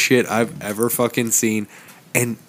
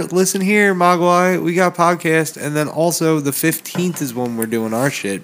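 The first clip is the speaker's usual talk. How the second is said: higher-pitched retold telling-off; mock firm announcement; 5 semitones higher than usual. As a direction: lay down the law in a raised pitch, playfully. Retelling what they told partner.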